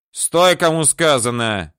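put-on loud, slow drunk order; drunken shout. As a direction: yell it like a drunk. Drunk commands him to stop.

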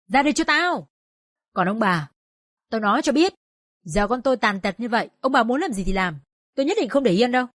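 screaming curses. Acted. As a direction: call her out with rage. Neighbour screams for the daughter. (chửi rủa giận dữ)

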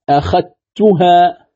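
slow أخذتها with ذ merged into ت; أخذتها said as "akhattuha", ذ dissolved into ت; recitation with merging. Shown as a demonstration. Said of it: "هكذا".

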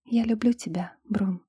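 a soft, tender whispered confession. A narrator's reading. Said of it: "тихо сказала она". (нежный шёпот)

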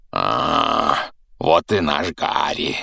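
slow, low, pleased giant voice; a booming, contented greeting; satisfied giant. Acted. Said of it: "удовлетворённо произнёс великан".

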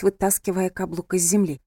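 plain reading voice

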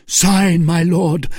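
loud, high command; insistent demand. A narrator's reading. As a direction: press the order urgently. Felton insists again.

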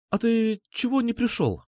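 a hint of a bubbly girl; lightly voiced girl. A narrator's reading. Alpha voiced higher.

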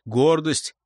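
usual speaking voice

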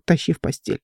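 ordinary delivery, nothing marked

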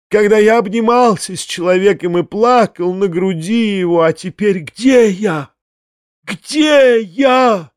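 high impassioned lament; crying out. A narrator's reading. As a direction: build to a long, high wail. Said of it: "кричал Фома".

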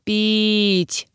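a weak, drawn-out moan for water. A narrator's reading. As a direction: plead for water through pain. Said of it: "простонала я".

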